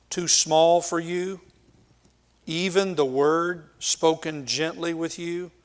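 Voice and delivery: pointed, mildly exasperated questioning; sarcastic and frustrated. Acted. Eliphaz scolding suffering Job, sarcastic and frustrated. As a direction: press each point with a touch of sarcasm. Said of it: "You hear the sarcasm".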